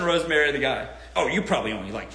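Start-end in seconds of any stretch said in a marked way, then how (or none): 1.1-2.1 a hint of a sulky rejected guy, a touch lower; mock the bitter guy lightly; impression of broke guy. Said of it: "here's my impression".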